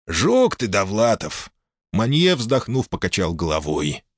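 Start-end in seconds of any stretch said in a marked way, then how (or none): 0.1-1.5 hearty teasing jab; teasing port boss. Acted. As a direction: rib him fondly. Manye teasing.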